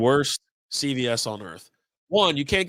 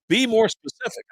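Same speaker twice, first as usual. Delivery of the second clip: exasperated; 9 semitones higher than usual. Retold or imitated. Acted quarrel over the dosage.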